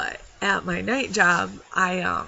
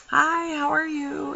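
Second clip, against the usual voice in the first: cheerful greeting; 9 semitones higher, 4 dB louder, slower than usual. Retold or imitated. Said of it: "he walked in and I said".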